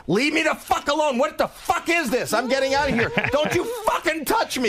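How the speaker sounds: high panicked yelling; scared and angry. Retold or imitated. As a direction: freak out, scared and furious. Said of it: "he starts going".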